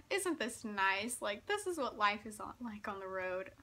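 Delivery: lightly imitated sarcasm; sarcastic. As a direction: play it as dry, teasing mock appreciation. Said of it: "being just so sarcastic and funny".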